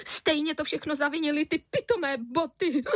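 a tearful mother blaming the shoes; sobbing. A narrator's reading. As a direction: sob out the blame. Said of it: "vzlikala paní Středníková".

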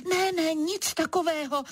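vyšší, naléhavé rozkřiknutí; zakřič jako lev. Acted. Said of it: "Rozkřiknu se". (křik jako lev na levharta)

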